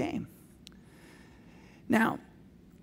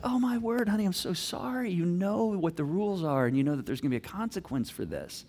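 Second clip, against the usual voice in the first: softer, sorrowful sympathy; sympathetic reply; 4 dB quieter than usual. Acted. Dad to daughter who broke phone rule, gentle sympathy. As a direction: let the consequence down gently. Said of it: "But instead, I'm like".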